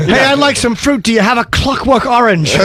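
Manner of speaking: mock film dialogue. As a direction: play a corny movie character asking innocently. Parody of clunky title-drop dialogue.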